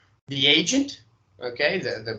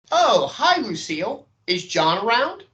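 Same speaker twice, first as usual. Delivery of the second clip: light, friendly caller pitched a bit up; breezy sales agent asking casually; lightly raised caller voice; 6 semitones higher than usual. Acted. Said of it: "changing my voice a little bit".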